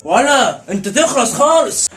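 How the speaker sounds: heated warning in a fight; slow threat. Acted. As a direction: drag out a loud, slow threat. Fight turns physical.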